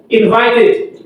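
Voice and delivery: "invited" ending in a clear "tid". Shown as a demonstration. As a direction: sound the last syllable of "invited". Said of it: "pronounced et or it".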